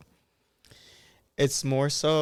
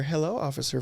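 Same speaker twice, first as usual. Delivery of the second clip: a light touch of a polite code-switch voice; hello officer voice; 3 semitones higher, faster than usual. Shown as a demonstration. Advising Black men on facing police, hello officer voice. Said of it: "I've always called that my hello officer voice".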